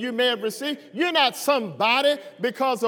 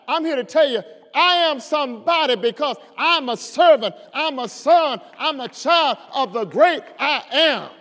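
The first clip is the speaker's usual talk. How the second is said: full force preaching. Acted. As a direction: drive each line home to the church. Preaching climax.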